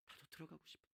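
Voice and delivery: barely audible, hushed wish; tiny, yearning voice; wistful longing. Acted. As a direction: murmur it privately, far under your voice. Acted longing of excluded beggar.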